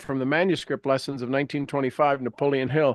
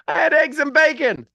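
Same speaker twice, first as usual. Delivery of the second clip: amused self-correction; 10 semitones higher, 5 dB louder than usual. Real, not acted. Laughing correction of own slip.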